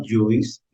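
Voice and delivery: "juice" read as written, "yu-is"; spelling pronunciation. Acted. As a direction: sound out the silent I in "juice". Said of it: "Está escrito acá". ("juice" leído tal como se escribe: "yuis")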